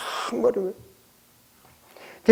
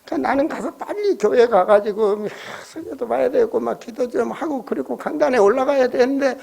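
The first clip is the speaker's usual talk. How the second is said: usual speaking voice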